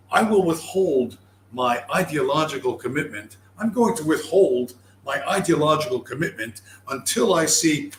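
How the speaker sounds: deliberate, self-important mock declaration; mock solemn pronouncement; mock pompous fence-sitter.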